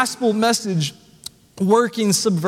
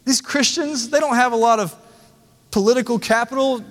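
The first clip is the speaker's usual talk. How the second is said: higher, puzzled voice of a skeptical world; baffled onlooker; 3 semitones higher, faster than usual. Retold or imitated. Preacher voicing the watching world, baffled and higher. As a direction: ask it like a bewildered outsider shaking his head. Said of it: "it shakes its head and says".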